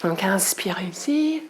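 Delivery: soft, near-whispered breath counts while moving; breathless whispered cues. Real, not acted. Yoga teacher doing the poses herself, out of breath, whispering breath cues. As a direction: barely voice the inspire and expire, out of breath. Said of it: "Je suis un petit peu essoufflée".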